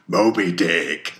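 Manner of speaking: loud, drawn-out call at speaking pitch; loud cry. Acted. Ahab names the white whale to his men, loud cry. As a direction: proclaim the name slowly and forcefully.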